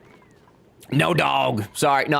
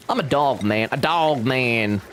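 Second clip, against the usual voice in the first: mock gruff dog man; slower than usual. Mock declaring herself dog man.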